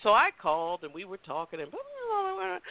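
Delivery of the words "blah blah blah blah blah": dismissive blah. Retold or imitated. Glossing over chat.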